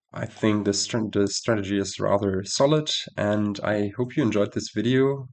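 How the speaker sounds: stuffy nose, nasal tone. Real, not acted. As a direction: talk through a blocked nose. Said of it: "Sorry for my rather nasal voice".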